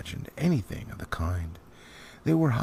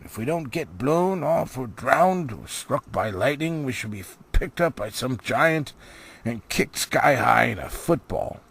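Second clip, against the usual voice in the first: higher, anxious dwarf grumbling; Thorin, fretting; 4 semitones higher than usual. Acted. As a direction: list the dangers like a worried old dwarf. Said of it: "said Thorn".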